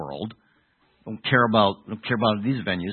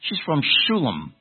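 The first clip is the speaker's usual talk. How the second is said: higher, exaggerated leading tone with falling ends; leading false suggestion; 3 semitones higher than usual. Shown as a demonstration. Preacher baiting the congregation with a wrong answer, leading tone. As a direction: float a wrong answer as if obvious. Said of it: "if I'm talking like this".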